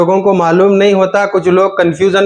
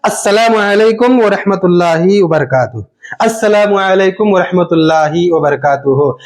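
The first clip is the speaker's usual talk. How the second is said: prayer salam. Shown as a demonstration. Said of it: "अब सलाम फेरा जाएगा".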